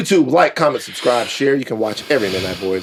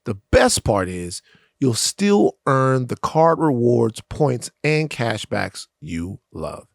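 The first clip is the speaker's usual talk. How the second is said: smooth, slow ad-read voice. Acted. Host reading a sponsor ad to listeners, smooth ad voice. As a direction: read it like a polished sponsor spot.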